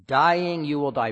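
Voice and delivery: "Dying" pushed up, then "you will die" falling; very emphatic. Shown as a demonstration. Preacher rendering the Hebrew warning, very emphatic. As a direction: lean hard on "Dying". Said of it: "very emphatic".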